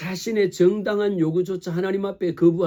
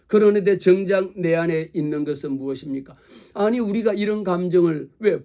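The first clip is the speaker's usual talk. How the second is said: normal talking voice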